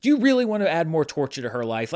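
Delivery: stern fatherly scolding, a bit quick; dad voice. Pretend. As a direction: lecture her like a strict dad. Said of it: "put on my dad voice".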